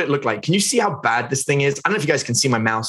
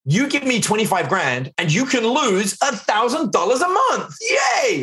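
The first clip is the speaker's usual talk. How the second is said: mock-cheery pitch, much higher and shouted, ending in a big Yay; sarcastic sales pitch; 8 semitones higher, slower than usual. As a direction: ham up a too-good-to-be-true offer. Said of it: "can you imagine someone coming up to you".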